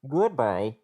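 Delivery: a touch of Bane, robotic; robot goodbye near Bane. Pretend. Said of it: "That, that got very close to Bane".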